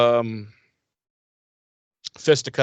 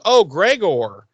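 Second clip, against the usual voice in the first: sly villain greeting; 5 semitones higher, slower than usual. Retold or imitated. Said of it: "she even says to him".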